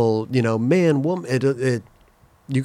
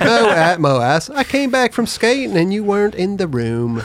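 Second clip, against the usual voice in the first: higher British character voice; British accent; 7 semitones higher than usual. Acted. Voicing the book's British character, British accent. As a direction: play the British friend, lightly. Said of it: "my British accent".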